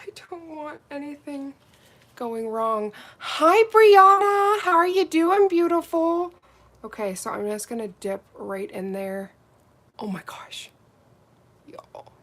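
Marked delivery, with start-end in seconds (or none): 3.2-6.3 high, loud, slow sing-song hello; sweet greeting. Real, not acted. Welcoming a viewer called Brianna with a sing-song hello. 10.0-12.1 soft breathy whisper; whispered awe. Real, not acted. Seeing the gel sparkle, whispering in awe.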